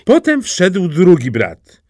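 ordinary delivery, nothing marked

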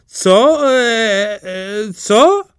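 high, halting questioning squeak; bewildered stammer. A narrator's reading. Second brother asks the princess, bewildered stammer. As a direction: stumble from one baffled sound to the next. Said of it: "spytał".

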